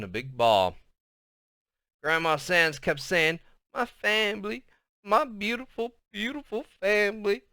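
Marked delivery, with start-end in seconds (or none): 3.7-7.4 weeping. Acted. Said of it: "all the weeping".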